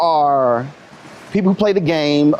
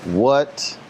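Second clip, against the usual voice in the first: stern father; 7 semitones lower, 4 dB quieter than usual. Retold or imitated. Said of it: "when you went".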